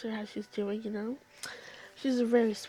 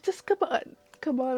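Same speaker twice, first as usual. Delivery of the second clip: urgent coaxing call; 6 dB louder than usual. Retold or imitated. Hurrying crying kids out the door.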